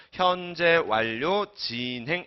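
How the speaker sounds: 현재 완료, 진행 read slowly in chunks; reading demonstration. Shown as a demonstration. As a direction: draw out 현재 완료 and 진행, parting them clearly. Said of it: "이렇게 읽으시면 돼요". ("현재 완료, 진행"을 천천히 끊어서 읽기)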